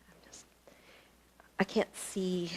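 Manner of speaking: soft whisper to herself; quiet aside while fixing the frame. Real, not acted. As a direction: breathe it off-mic.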